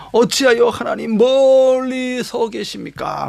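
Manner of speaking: slow, high, drawn-out plea to God; earnest cry of faith. Acted. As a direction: cry out to God, stretching the words. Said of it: "신앙적인 외침이야". (길게 끄는 간절한 신앙의 외침)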